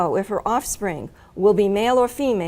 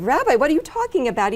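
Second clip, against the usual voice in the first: quick, higher-pitched mild disbelief; retold shock; 5 semitones higher, faster than usual. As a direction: lightly re-enact a shocked, hurried challenge. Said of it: "And I was shocked".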